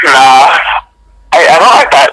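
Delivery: marbles in mouth, mushy slurred words; speech impediment. Real, not acted. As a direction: talk like marbles fill your mouth. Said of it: "You just sound like you got marbles in your mouth".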